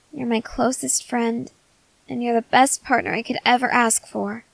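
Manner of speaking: tender reassurance. Acted. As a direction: reassure them gently, meaning every word. Reassures partner of her love.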